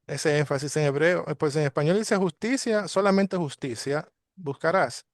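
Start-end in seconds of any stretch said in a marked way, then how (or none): 2.2-5.1 "Justicia" lifted high, then "solamente justicia" stressed; emphatic reading. Shown as a demonstration. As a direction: read the verse leaning hard on "Justicia" and "solamente". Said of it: "¿Por qué se hace ese énfasis?". (con énfasis en "Justicia", alta y marcada)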